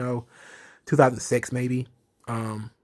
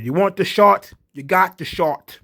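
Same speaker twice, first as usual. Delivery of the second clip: Finn Balor; 6 semitones higher, 4 dB louder than usual. Retold or imitated. Recapping Finn Balor answering Pete Dunne, hammed-up intense challenge. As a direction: bark out the challenge like a wrestling promo. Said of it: "Finn Balor said".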